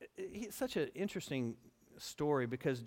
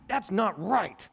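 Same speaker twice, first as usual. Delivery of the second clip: sulky protest; 5 semitones higher, 8 dB louder, slower than usual. Retold or imitated. Jonah sulking at God.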